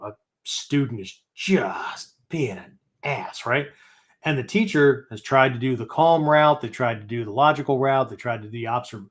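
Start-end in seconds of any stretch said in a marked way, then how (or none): 0.0-3.4 hushed, breathy aside; whispered aside. Real, not acted. Teacher whispering an aside to the class. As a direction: drop to a whisper for the joke. Aside about a rude student.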